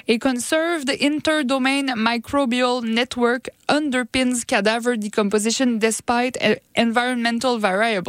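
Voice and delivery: English read with a French speaker's accent; real French-accented English; mangled English accent. Real, not acted. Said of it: "mon accent anglais, euh, un petit peu écorché peut-être".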